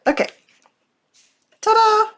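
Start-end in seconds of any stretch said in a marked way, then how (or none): 1.6-2.1 high, bright reveal. Real, not acted. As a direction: show it off with a flourish. Presenting finished craft.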